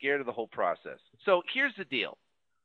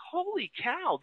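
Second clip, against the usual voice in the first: mock alarm; 11 semitones higher, 5 dB quieter, slower than usual. Inner panic at the task.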